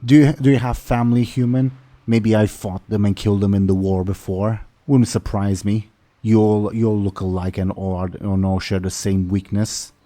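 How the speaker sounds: lightly voiced orc taunt, quick loud opening; hostile orc. Orc captain taunts the human rescuer, mildly hostile orc voice.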